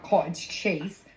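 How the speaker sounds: put-on British vowels; lightly British-accented slip mid-recipe. Cook naming the cottage cheese, playful British accent. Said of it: "broke into a British accent".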